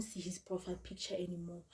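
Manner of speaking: soft whispered aside; hushed aside about being blocked. Real, not acted. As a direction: murmur it under your breath.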